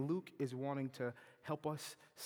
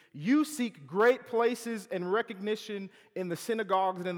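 loud, high rebuke, slowing on the hands; Jesus rebuking; 5 semitones higher, 7 dB louder than usual. Acted. Jesus rebuking the Pharisees at table, loud and high. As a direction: lash the Pharisees with each charge.

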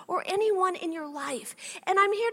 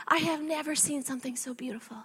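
awed whisper; 4 semitones lower, 6 dB quieter than usual. Real, not acted. First sight of newborn daughter.

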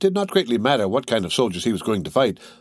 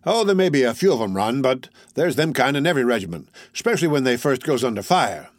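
mildly tolerant, higher; 4 semitones higher than usual. Acted. Tall soldier shrugging off cowards to the youth, mildly tolerant. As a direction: let it slide easily. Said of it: "in a tolerant way".

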